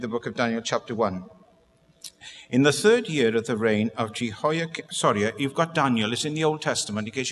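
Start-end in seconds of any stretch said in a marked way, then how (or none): 2.5-4.9 launching straight into the reading without pauses; rushing on. Real, not acted. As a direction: rush on into the Bible verse. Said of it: "I do rush on a little bit".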